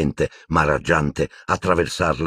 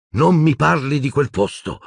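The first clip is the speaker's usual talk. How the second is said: exclaimed; 9 semitones higher than usual. A narrator's reading. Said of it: "esclamò Harry".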